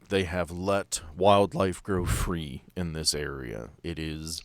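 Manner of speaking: ordinary talk, nothing marked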